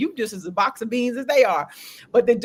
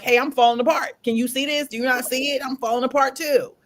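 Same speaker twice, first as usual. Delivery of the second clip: higher-pitched appeal to be noticed; acted-out outburst, pitched up; exasperated plea; 5 semitones higher than usual. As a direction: call out to the world, fed up. Wishes she could tell the world.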